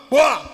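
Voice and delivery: sudden loud "poah" for a smack; imitated slap sound. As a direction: punch out a mimed slap noise. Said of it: "gave me another one".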